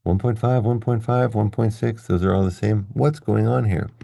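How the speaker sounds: puzzled wondering. Acted. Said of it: "You're wondering".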